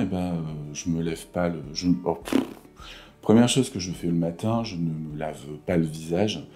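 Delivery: low creaky morning voice; vocal fry. Real, not acted. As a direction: croak it low, barely awake. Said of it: "ma voix du matin".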